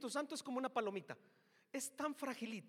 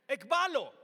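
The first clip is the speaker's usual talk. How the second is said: "ekbalo" called out much louder with a firm fall; loud proclamation; 9 dB louder than usual. Shown as a demonstration. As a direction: punch "ekbalo" like a command. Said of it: "¿Qué significa?".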